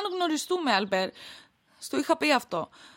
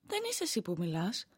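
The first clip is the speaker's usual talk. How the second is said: low and much softer; hushed disbelief; 9 semitones lower, 10 dB quieter than usual. Acted. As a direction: say it low, stunned. Wife in disbelief. (σιγανά, σοκαρισμένη)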